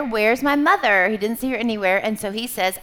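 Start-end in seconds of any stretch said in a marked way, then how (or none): 0.0-1.1 baby bird's louder question, lightly acted; lightly voiced baby bird. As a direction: read it out as the searching chick. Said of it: "he says up there".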